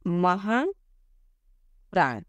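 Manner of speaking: very slow, stretched महाप्राण; drawn out. Shown as a demonstration. Teacher stretches the term for students, very slow. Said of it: "अब महाप्राण".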